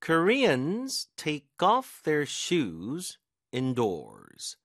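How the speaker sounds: very slow, leaning hard on "off" in "take off"; stress on off. Shown as a demonstration. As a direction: read it slowly, landing the weight on "off". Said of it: "그 동사니까 뒤에 힘을 주겠죠".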